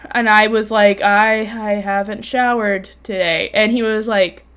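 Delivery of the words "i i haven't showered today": slow, halting retold confession; stunned stammer. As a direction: stumble on the first word, dragging it out. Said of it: "'cause I'm stunned".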